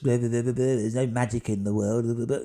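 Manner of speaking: mock skeptic. Mocking skeptic friends.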